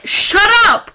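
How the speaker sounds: drawn-out, fed-up "shut up"; slow dismissive shut up. Retold or imitated. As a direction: drag out the words, scornful. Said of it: "I was like".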